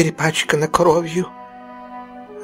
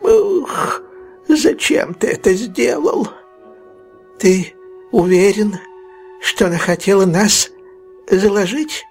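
very high, wailing horror; old fence crying out, aghast; horrified old man; 9 semitones higher than usual. Acted. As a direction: shriek it out in shock. Fagin cries out in horror.

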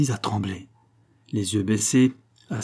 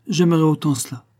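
hard, higher and louder answer; harsh reply; 6 semitones higher, 4 dB louder than usual. Acted. Don José answers Concepción harshly, louder. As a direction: throw it back at her harshly. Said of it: "répondit durement".

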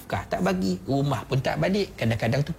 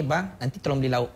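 gentle request. Shown as a demonstration. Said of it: "Puan cakap lembut begitu je".

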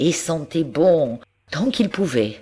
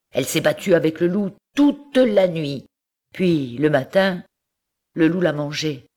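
warning farmer; 2 semitones higher than usual. Acted. Monsieur Seguin warns his goat about the wolf, earnest. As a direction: spell out the danger of the wolf.

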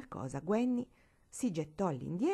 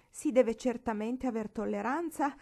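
higher, wailing lament; a lady's higher, moaning lament; 5 semitones higher, 3 dB louder than usual. Acted. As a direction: whine it out like a wounded matron.

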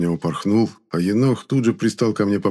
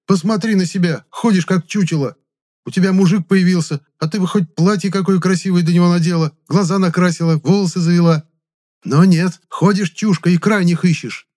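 angry scolding; 10 semitones higher, 6 dB louder than usual. A narrator's reading.

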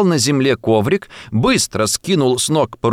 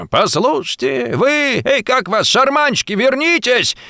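calling out; 12 semitones higher than usual. A narrator's reading. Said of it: "закричало с балкона несколько голосов".

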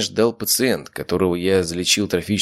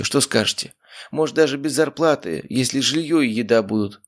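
higher pleading voice of a humble man; timid patient asking for help, higher and pleading; humble grateful patient; 7 semitones higher than usual. Acted. Arkhip asks for work.

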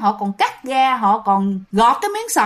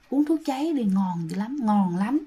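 soft, coaxing ghostly murmur; luring ghost voice; 2 semitones lower, 6 dB quieter than usual. Retold or imitated. Ghost luring villagers to drink poison, soft and coaxing. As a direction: tempt them quietly like a spirit.

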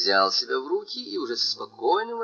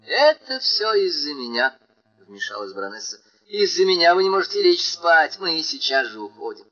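bright, higher, louder lady's voice; lively baroness; 5 semitones higher, 5 dB louder than usual. Acted. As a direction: apologize in a rush, voice raised. Baroness apologizes eagerly.

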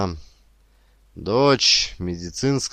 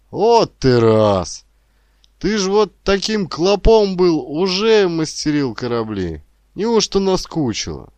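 high, loud dismayed protest; taken aback; 10 semitones higher, 7 dB louder than usual. A narrator's reading. Grandfather to doubting grandson, taken aback.

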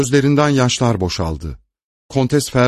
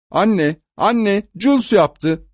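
put-on much higher, childish complaining voice; child tattling; 9 semitones higher, slower than usual. A narrator's reading. Little girl running to mother to tell on Jules, childish whine. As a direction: whine like a little girl telling on her brother.

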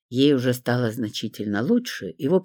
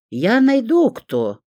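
frowning vow; 9 semitones higher, 6 dB louder, slower than usual. A narrator's reading. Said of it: "нахмурилась я".

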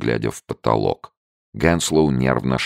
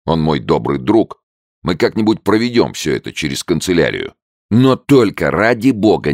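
urgent plea; 5 semitones higher, 5 dB louder than usual. A narrator's reading. Walters urging loudly.

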